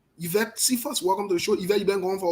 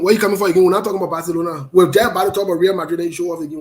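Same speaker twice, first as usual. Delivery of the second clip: excited teasing; 7 dB louder, faster than usual. Real, not acted. Teasing a Madrid fan.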